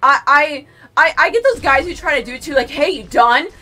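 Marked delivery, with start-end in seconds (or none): 2.7-3.5 louder, in-your-face hey; imitating a pushy gym guy; pushy mock hey. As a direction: badger them, hey hey hey. Mimicking pushy gym guys.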